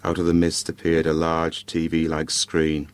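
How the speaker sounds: measured storytelling with dramatic pauses; story narration. A narrator's reading. Podcaster reads a Christmas ghost story to listeners, measured narration. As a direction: read it out in short, spaced phrases.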